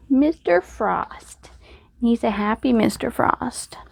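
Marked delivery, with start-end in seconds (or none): 0.1-1.5 higher and slow, savoring the name; fond naming. Real, not acted. Crafter proudly announcing the snowman's name to viewers, high and slow. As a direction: present the name proudly, drawn out.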